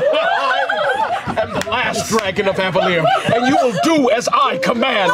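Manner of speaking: commanding hero. Acted. Player commands summoned dragon in character.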